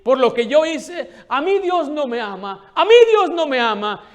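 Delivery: high, loud crying plea; sobbing mother asks if God could love her; tearful pleading. Retold or imitated. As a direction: wail it out like a woman in tears. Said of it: "Ella ya llorando y con llanto decía".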